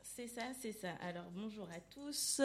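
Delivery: chuchoté. Real, not acted. Réponse chuchotée à l'annonce.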